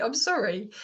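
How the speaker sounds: mean every word of "sorry"; a heartfelt "I'm sorry" to the boys; genuine sorry. Shown as a demonstration.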